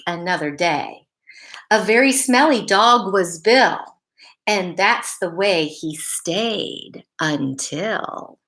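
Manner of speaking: slow, rhythmic picture-book reading; storybook reading. Acted. Teacher reading a rhyming dog story to kids, lilting storybook voice. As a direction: read the rhyme to children, savoring it.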